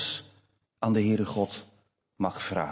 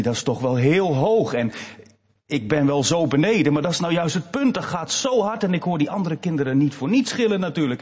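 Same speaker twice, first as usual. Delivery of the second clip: put-on scared little boy; 6 semitones higher, 5 dB louder than usual. Boy scared atop slide.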